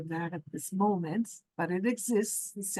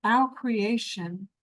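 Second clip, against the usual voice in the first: spiritual meditation teaching. Real, not acted. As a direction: let each phrase settle before the next. Leads a meditation session.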